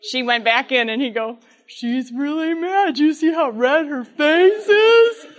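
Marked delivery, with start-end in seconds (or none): 1.7-5.3 sly aside. Retold or imitated. Dad aside to kids.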